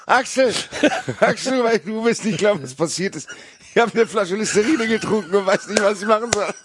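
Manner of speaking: high, panicked YouTuber wail; clickbait video narrator. Pretend. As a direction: overplay the drama of a clickbait video.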